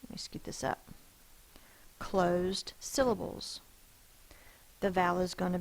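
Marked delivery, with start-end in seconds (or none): 2.0-3.6 Closed syllables said slowly, with the stress on Closed; slow emphasis. Shown as a demonstration. Teacher reminding the class slowly about closed syllables. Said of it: "Remember I told you about closed syllables".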